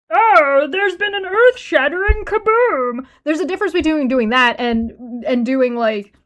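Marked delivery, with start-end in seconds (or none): 0.1-3.0 high-pitched put-on cartoon character voice. Explaining imitating a voice, the speaker does a Marvin the Martian voice. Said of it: "I start imitating Marvin the Martian".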